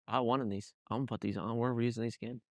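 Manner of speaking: low, soft thinking aloud; muttered self-talk. Retold or imitated. Racer picking lucky boxers, muttering to himself. Retold private thought while dressing.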